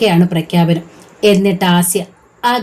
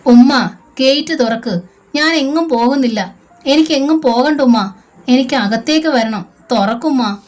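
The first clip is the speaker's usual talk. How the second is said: high, desperate pleading wail; 5 semitones higher than usual. Acted. Daughter begs her mother to open the gate, high wailing plea. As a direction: beg to be let back in, voice pitched up. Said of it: "Aneesa നിലവിളിച്ചു".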